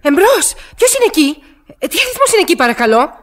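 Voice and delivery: nervous voice asking who is there; uneasy hello down a dead line; anxious calling. Acted. Woman calling on crossed line.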